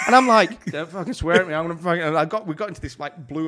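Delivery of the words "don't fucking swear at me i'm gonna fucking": loud, raised mock threat; retold angry retort. Barman to swearing customer about to fight, retold angry retort. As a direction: act out squaring up to someone.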